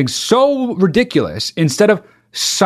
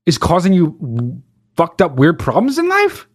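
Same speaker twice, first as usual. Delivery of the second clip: incredulous rant; 5 semitones higher than usual. Real, not acted. Ranting at the diaper wearer.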